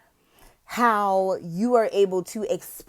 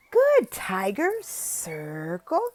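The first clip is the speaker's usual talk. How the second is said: excited praise; much slower than usual. Shown as a demonstration. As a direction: cheer the child on.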